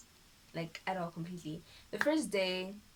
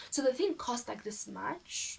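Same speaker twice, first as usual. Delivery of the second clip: imitating doctor; 5 semitones higher, slower than usual. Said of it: "the way he said".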